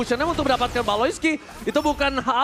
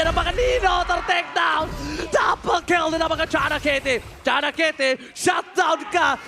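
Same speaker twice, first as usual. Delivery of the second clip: fighting game announcer. Real, not acted. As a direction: shout the kill call. Caster calling double kill.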